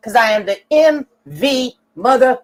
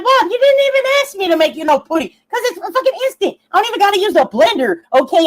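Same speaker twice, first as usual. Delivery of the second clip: retold exasperation; 4 semitones higher, faster than usual. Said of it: "I'm like".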